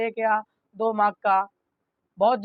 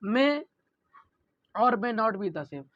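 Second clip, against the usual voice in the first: very slow, word by word for notes; slow dictation; 4 dB quieter, much slower than usual. Shown as a demonstration. Teacher dictating slowly to the class for notes. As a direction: read it out slowly so students can write. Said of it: "teacher dictates the definition".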